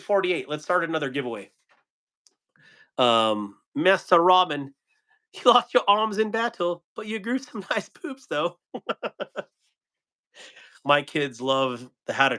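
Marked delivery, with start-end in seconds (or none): 3.8-8.8 high, giggling through the joke; laughing tease. Real, not acted. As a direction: laugh while teasing the viewer. Teasing a chatter about Robin Hood.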